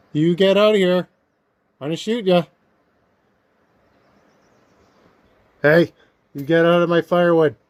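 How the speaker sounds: loud, sharp shout to chase off a bear. Real, not acted. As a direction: yell at the bear to back off.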